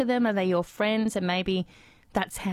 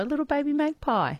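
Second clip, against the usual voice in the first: higher, cooing over something cute; 7 semitones higher than usual. Real, not acted. Radio host charmed by a magpie fledgling, cooing.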